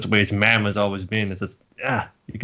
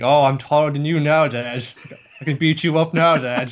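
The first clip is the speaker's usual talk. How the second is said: put-on higher, louder boyish brag; cocky teen; 5 semitones higher, 4 dB louder than usual. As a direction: crow at Dad like a smug kid. Teen boasting to dad.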